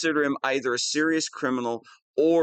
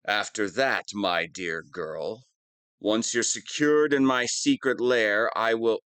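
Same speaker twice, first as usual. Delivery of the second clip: menacing villain; 5 semitones lower than usual. Acted. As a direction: savour the threat. Resuming the menacing villain speech.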